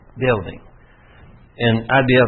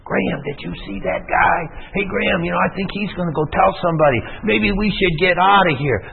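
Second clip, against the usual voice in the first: high, fast, nervous urging; hissed alarm to a friend; alarmed urgent whisper-shout; 5 semitones higher than usual. Retold or imitated. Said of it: "I almost felt like saying something".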